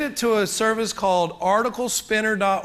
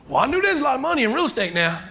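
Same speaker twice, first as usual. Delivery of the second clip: quoting dad; 6 semitones higher, faster than usual. Retold or imitated. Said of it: "He said".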